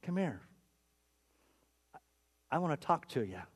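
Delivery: soft, low-key invitation; gentle summons. Acted. Jesus calls doubting Thomas over to talk, gently. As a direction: draw him aside quietly and kindly.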